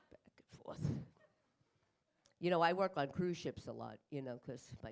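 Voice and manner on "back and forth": unvoiced sly whisper. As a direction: drop to a secret whisper. Whispered aside after the yell.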